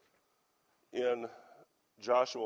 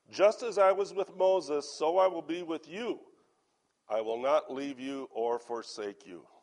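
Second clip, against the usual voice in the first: scripture reading; 5 dB louder than usual. Acted. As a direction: proclaim God's promise from the page. Reads scripture to congregation.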